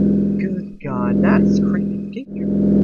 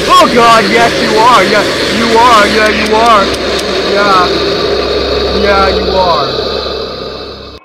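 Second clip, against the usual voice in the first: loud, high panicked screams; terrified screaming; 5 semitones higher, 10 dB louder, slower than usual. Real, not acted. Screaming during jump scare.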